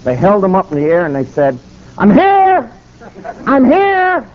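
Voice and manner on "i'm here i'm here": joyful shout. Retold or imitated. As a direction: call it out like a rally cry. Men shouting off the buses.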